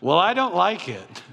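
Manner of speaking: a laughing mock complaint; laughing protest. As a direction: blurt it out through a laugh. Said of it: "I was like".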